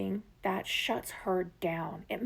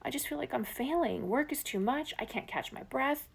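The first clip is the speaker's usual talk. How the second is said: higher, breathy-whispered overwhelmed woman; overwhelmed partner; 5 semitones higher than usual. Acted. Coach voicing upset partner walking in the door, higher overwhelmed voice. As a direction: voice her like she's close to tears, lightly. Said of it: "clearly emotional".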